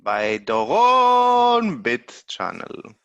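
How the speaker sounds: big drawn-out channel shout-out; channel announcer impression. Co-host imitates the host's channel plug, hyped announcer voice. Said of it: "I don't say it like you say it".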